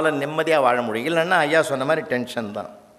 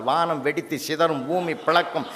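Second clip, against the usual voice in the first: mock-dramatic recitation; 4 semitones higher than usual. Dramatic exam answer read aloud.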